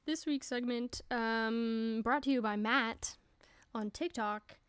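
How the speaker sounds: light mock radio-announcer read; playful radio host shout-out. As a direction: introduce the segment like a half-serious DJ. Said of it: "That's my radio voice".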